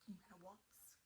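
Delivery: whispered playful question. Real, not acted. To the child, whispered invitation to waltz.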